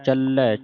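ਚੱਲੈ with a doubled, held L; ਚੱਲੈ ਕੱਸ ਕੇ; ਚੱਲੈ said tight. Shown as a demonstration. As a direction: stress the double L of ਚੱਲੈ firmly. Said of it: "ਚੱਲੈ ਪਾਠ ਕੱਸ ਕੇ ਬੋਲਣਾ ਹੈ".

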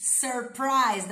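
"Surprised" with the tongue curled on the r; carefully shape "Surprised", rolling the tongue back for r; articulation demo. Shown as a demonstration. Teacher explaining tongue position to students, "Surprised" carefully articulated. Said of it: "Enrola a língua lá no dente".

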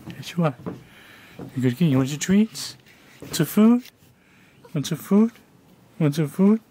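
high, sing-song cooing at the cat. Real, not acted. Owner coaxing her cat with treats, high baby talk.

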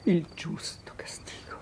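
sussurrato, quasi a se stessa; sussurro rassegnato. Acted. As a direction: accetta la colpa in un soffio. Madre si rassegna alla colpa. (sussurro rassegnato)

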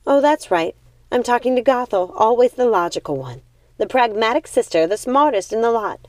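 high, loud biting sarcasm; mock her sister's cleverness; sarcastic. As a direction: sister sneers at Gothel's logic.

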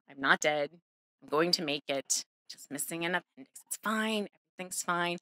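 soft, low-key reassurance; quiet imitated comforting; consoling. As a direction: gently assure a worried child, voice dropped. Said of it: "we console him and assure him".

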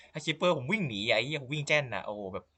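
half-laughing, half-crying panic; a hammed-up scared wail; mock panic. Real, not acted. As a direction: whine in playful fear of creepers. Fleeing creepers, mock terror.

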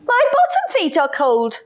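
high, fast little whimper; whimpering lion. Acted. The lion whimpers to William about his cold feet, whimpering. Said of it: "whimpered the lion".

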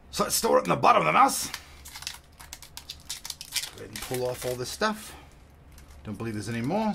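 gruff hammed-up pirate voice; pirate accent. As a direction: growl it like a pirate. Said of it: "to do that crazy accent anymore".

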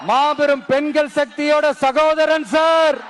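slow, booming declaration to the crowd; defiant rally shout. Real, not acted. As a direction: proclaim each line slowly and forcefully. Rally speech to ruling party. (மெதுவான, உரத்த சவால் முழக்கம்)

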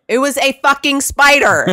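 high, laughing emphatic retort; laughing while repeating the excuse; laughing insistence. Retold or imitated.

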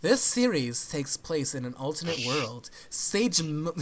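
hammed-up flamboyant reading. Reading a series summary to friends, mock flamboyant. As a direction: put on a theatrical, flamboyant read. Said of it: "I can do a very, uh, flamboyant voice".

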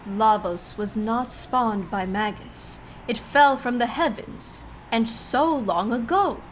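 lightly voiced old sage woman; wise witch voice. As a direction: read it like a knowing old witch. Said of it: "Your wise witch voice is impressive".

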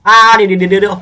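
high, loud panicked "wait wait". Real, not acted. Player startled by sudden game ending, panicked shout. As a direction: shout เดี๋ยว over and over in alarm.

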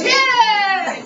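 sudden loud high cheer at the play; cheering yay. Retold or imitated. Recounting a friend watching football, imitating his cheer. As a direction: burst out cheering like a fan watching the game. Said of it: "He goes".

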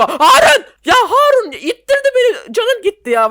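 high, loud yell at a teammate; shout at Harun. Real, not acted. Yelling at teammate Harun who pushed him off, high and loud. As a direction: bellow his name in outrage.

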